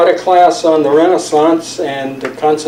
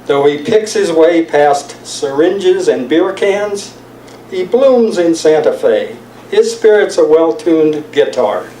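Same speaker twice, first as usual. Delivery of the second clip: slightly lifted, deliberate verse delivery; poetry reading; 3 semitones higher than usual. Acted. Poet answering family's pleas to return, deliberate poem reading. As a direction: recite it phrase by phrase, with pauses. Reads own poem aloud.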